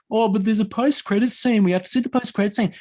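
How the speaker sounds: mock a whiny child begging; whiny kids. Mocking the rowdy kids begging to stay, high whine. Kids whining to cinema worker.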